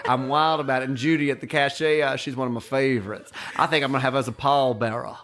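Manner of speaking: grand, honeyed exclaiming that gradually settles; Swoopy chattering. Retold or imitated. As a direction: imitate a theatrical old lady sharing her favorites. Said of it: "That's what she said".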